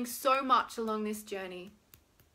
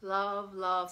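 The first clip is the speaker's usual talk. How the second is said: warm affirmation; 3 semitones lower, slower than usual. Shown as a demonstration. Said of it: "say it like that".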